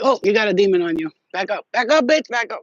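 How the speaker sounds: loud warding off a demon; hammed-up spiritual scolding; mock exorcist. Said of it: "I'll be like".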